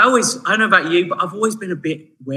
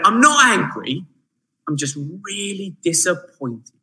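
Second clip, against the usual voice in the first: a hint of a let-down parent; disappointed parent; slower than usual. Preacher imitating a parent telling a child off, mildly disappointed. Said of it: "that thing that parents do".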